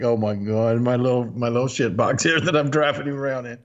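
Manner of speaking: mildly deflated retold thought. Young driver ashamed of his little car, mildly deflated. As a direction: let it sink a little, a touch crestfallen. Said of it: "I was just deflated".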